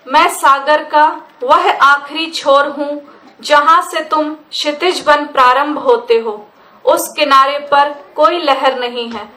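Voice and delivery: measured verse delivery with a pause after each phrase; poetry recitation. Acted. Poet reciting on her own language to listeners, measured recitation. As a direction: recite line by line, repeated lines given equal weight.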